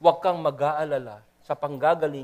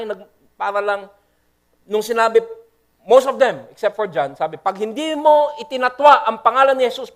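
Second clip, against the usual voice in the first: fervent preaching; 4 semitones higher, 5 dB louder than usual. Real, not acted. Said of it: "kaya ako sumisigaw".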